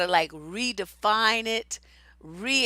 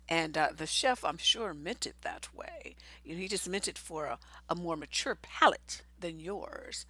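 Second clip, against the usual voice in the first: low, hushed, smugly patient explaining; condescending mansplainer; 5 semitones lower, 10 dB quieter than usual. Acted. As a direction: imitate a man talking down to her, very softly. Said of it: "they do it in a very condescending way".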